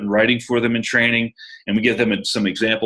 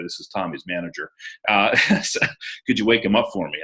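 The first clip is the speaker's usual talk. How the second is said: deep voice; 2 semitones lower than usual. Shown as a demonstration. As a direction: drop the voice down to sound in charge. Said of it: "Put on my deep voice".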